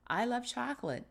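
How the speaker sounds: high, emphatic declaration of strong love; exclamation. Shown as a demonstration. Teacher showing what an exclamation mark does, emphatic exclamation. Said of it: "I have a strong love".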